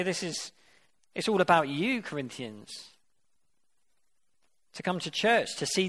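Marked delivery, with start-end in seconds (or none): 0.0-2.9 ironic flattery. Retold or imitated. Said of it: "It is ironic".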